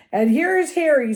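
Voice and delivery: high, loud, hearty announcement; giant's greeting. A narrator's reading. Giant spots the boy he came for, loud and hearty. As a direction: proclaim it as the big friendly giant. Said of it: "said the giant".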